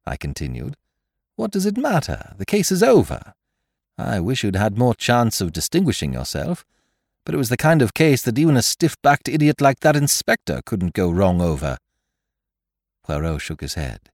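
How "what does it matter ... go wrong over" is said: high-pitched, blustering sidekick; exasperated companion. Acted. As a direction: dismiss it all in a raised, high voice. Hastings' dialogue, exasperated.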